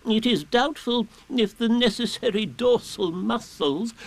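high, slow, self-important owl; Owl, pompous. A narrator's reading. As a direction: announce it grandly as a learned owl. Owl pontificates on his back.

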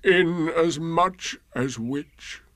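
very slow, mournful drawn-out donkey; Eeyore's sad pondering. A narrator's reading. Old donkey brooding alone, slow sad pondering. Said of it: "he thought sadly to himself".

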